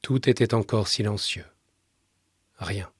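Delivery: measured literary reading with long pauses; subdued radio storyteller, letting each sentence settle; story narration. A narrator's reading. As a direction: read the story in a calm, restrained voice.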